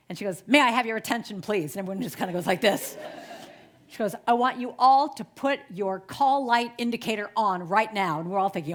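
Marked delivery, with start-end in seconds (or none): 0.5-1.7 lightly imitated cabin announcement; louder opening, like addressing the whole plane; flight attendant announcement. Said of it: "flight attendant comes on the loudspeaker". 4.3-8.2 lightly imitated loudspeaker instruction to passengers; a hint of cabin-crew projection, louder; flight attendant announcement. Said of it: "flight attendant comes on the loudspeaker".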